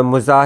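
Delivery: "मुजाह", opening on mu, then a long aa; first vowel of "मुजाह" as a short u; pronounced "मुजाह". Shown as a demonstration. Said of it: "इसका तलफ़ुज़".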